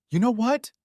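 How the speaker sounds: shrieked, high and loud; screaming. A narrator's reading. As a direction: scream it at full pitch. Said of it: "she screamed".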